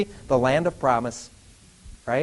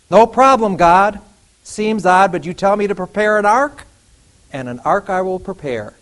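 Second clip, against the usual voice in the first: cheerful Noah; 3 semitones higher, 6 dB louder than usual. Acted. Noah voiced answering God.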